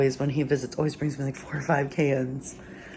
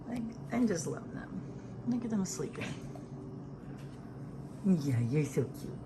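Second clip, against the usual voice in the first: soft cooing; 12 dB quieter than usual. Real, not acted. Cooing at her sleeping babies.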